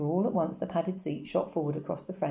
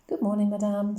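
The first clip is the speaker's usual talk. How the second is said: a courteous good morning, a touch louder; mildly voiced polite father; polite greeting; 6 semitones higher, 7 dB louder than usual. A narrator's reading. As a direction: greet the concierge with careful politeness. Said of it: "said Papa politely".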